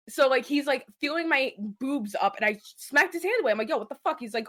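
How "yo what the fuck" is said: outraged. Retold or imitated. Smacks his hand away.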